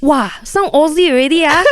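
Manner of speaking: high, loud Malaysian teasing voice; teasing friend. Retold or imitated. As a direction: tease like an old friend back home. Friends teasing about Aussie sound.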